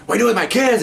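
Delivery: high, loud outraged demand; mock indignant mother; angry mother. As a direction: confront the cops for grabbing her kids. Mother confronts police over kids.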